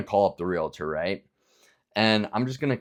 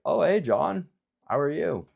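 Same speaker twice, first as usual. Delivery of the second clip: much higher, upbeat sales greeting; friendly caller greeting; 9 semitones higher, 4 dB louder than usual. Retold or imitated. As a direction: perk right up like a friendly cold caller. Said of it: "they're like".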